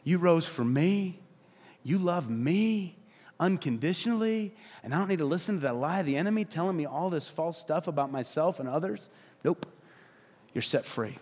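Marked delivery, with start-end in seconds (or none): 0.0-9.7 humble believer. Acted. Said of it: "Humility is saying".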